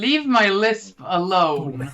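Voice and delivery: laughing. Real, not acted. Joking about his lisp.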